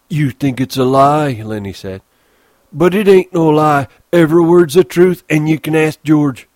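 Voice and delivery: Lenny defending the dream; earnest protest. Acted. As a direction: swear it's true like a wounded child.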